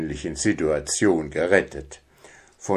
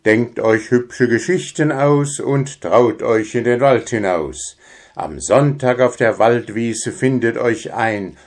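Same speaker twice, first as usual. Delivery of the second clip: announcement read aloud. Acted. Puh calls the forest folk, proclaiming. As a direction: call out the invitation like a town crier.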